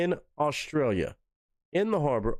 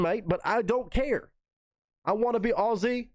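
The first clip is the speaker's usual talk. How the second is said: much higher, bubbling over with real excitement; can't contain the hype for Australia; excited gushing; 8 semitones higher than usual. Real, not acted. Gushing over the Aussie parody.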